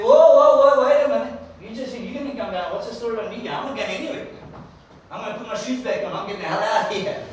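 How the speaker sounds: high, loud startled protest; mock-panicked Moses refusing; panicked backing out. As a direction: recoil in alarm and bail out. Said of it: "That was his attitude".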